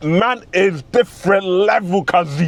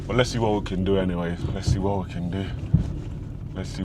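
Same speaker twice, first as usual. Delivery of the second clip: much lower, much softer worn-out voice; losing voice; 13 semitones lower, 10 dB quieter, faster than usual. Real, not acted. Vlogger who is losing his voice, low and faint. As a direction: voice nearly gone. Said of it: "I'm losing my voice".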